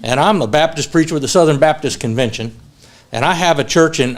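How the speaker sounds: drawling Southern preacher, lightly imitated; Southern accent. Baptist preacher introducing himself at breakfast, imitated Southern accent. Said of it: "Guy says in a very deep Southern accent".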